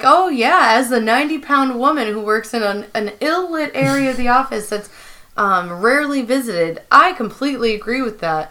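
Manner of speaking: mock-agreeing, drawn-up sarcasm; sarcastic. Retelling Angela's remark to Michael, lightly sarcastic. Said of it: "All sarcastic".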